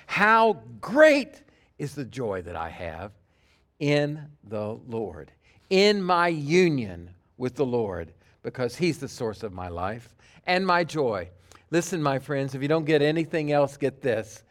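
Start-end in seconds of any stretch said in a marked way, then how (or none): 0.1-11.3 sincere paraphrase. Retold or imitated. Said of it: "He's saying, in effect".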